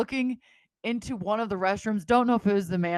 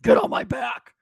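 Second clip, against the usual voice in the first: high, loud mock drunk yell; drunken shout; 5 dB louder than usual. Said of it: "I turn into a douchebag".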